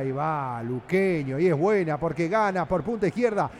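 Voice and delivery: flowing radio match call; radio narrator tracking an attack; live football play-by-play. Acted. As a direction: keep the call rolling with the ball.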